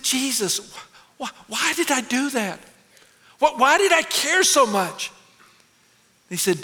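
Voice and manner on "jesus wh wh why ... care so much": a laughing plea, higher; half-laugh at his own folly; embarrassed laugh asking Jesus why; laughing question. Real, not acted.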